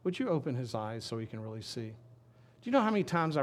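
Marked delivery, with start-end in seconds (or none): 0.0-1.9 composed prayer, settling lower; acted serene request; very calm. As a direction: ask it calmly as an unworried prophet. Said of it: "Elisha very calmly said".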